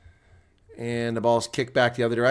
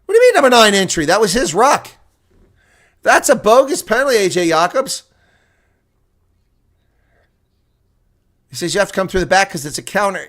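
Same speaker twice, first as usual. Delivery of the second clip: high, loud and fast protest at the ref; indignant commentator yelling at the referee; outraged protest; 4 semitones higher, 4 dB louder than usual. Real, not acted. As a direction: rant at a bad penalty call. Outburst at bogus penalty call.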